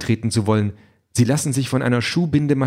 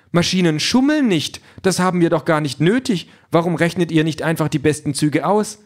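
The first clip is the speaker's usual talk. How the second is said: higher, prim machine voice; prim robot Calliope; 4 semitones higher than usual. Acted. Calliope objects to the cheating, higher and prim. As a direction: sound offended like a proper robot.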